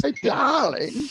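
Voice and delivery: high, slow, sugary stepmother voice; wicked stepmother. Pretend. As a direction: coo sweetly, villain underneath. Mock sugary mother greeting.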